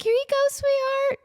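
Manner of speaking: imitating Britney's gushing sweetness; sweet Britney. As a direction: welcome her in like a doting big sister. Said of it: "And she's like".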